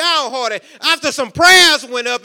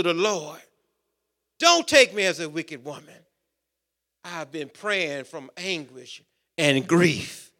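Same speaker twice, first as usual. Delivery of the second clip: Hannah's anguished plea; 4 semitones lower than usual. Acted. Hannah pleading continues.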